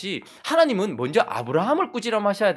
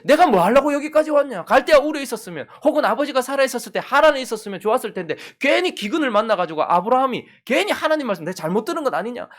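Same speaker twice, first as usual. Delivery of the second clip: high-pitched, louder lament in Abraham's voice; regretful lament; 8 semitones higher, 4 dB louder than usual. Acted. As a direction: pour out regret in a raised, high voice. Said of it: "그런 한탄하고 후회하고 있었을". (높은 목소리로 한탄하고 후회하듯)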